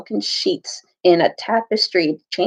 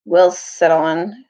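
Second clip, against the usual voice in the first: grim dwarf; 3 semitones lower than usual. Acted. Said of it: "said a black dwarf grimly".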